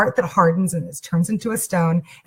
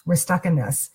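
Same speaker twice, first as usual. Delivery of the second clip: soft acceptance. Retold or imitated. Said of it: "allowed myself to feel".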